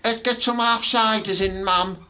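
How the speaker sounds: high mocking girl voice; mock daughter. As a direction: ham up a daughter ordering ciders.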